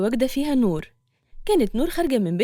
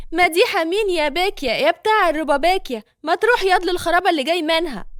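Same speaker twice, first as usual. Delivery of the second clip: higher, scolding street insult; angry; 5 semitones higher than usual. Acted. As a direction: tell him off hard. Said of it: "مديحة بغضب". (شتيمة بغضب بصوت أعلى)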